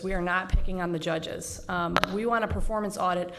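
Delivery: short of breath, breathing hard between phrases; talking while short of breath, pregnant. Real, not acted. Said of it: "excuse me, a little short of breath".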